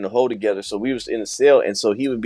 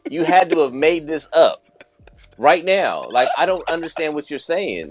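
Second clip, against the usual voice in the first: exasperated; 5 semitones higher than usual. Retold or imitated. Retold exasperated challenge to his cellmate.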